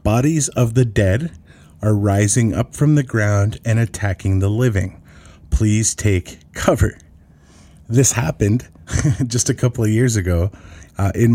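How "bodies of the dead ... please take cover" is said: slow, ominous machine-like emergency announcement; creepy computer voice. Retold or imitated. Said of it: "in a creepy computer voice".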